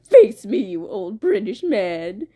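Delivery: put-on bold challenge, loud at first; hammed-up showdown taunt; Blood Moon. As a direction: call out your enemy theatrically. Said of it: "he's just like".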